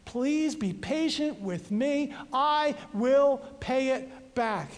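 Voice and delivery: a touch of a desperate beg; begging. Acted. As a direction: plead for patience, understated. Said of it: "he begged with the same words".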